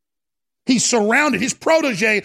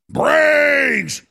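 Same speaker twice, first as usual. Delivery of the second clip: hungry zombie calling for brains; zombie moan; 4 semitones higher than usual. Pretend. Host imitating zombies demanding food. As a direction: groan it out like a zombie.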